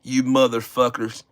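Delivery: lightly voiced Southern MAGA guy, low; a lightly played redneck growling threats; mock MAGA voice. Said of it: "Don't I sound like a fucking maga".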